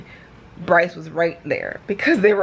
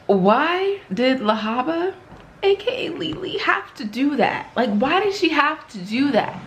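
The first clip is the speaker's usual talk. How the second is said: tearful; 4 semitones higher than usual. Real, not acted. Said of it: "sobbing while eating my pizza".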